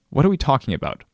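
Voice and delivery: mildly exasperated, pressing him; tired of a vague question, mildly impatient. Retold or imitated. Pressed friend, impatient reply.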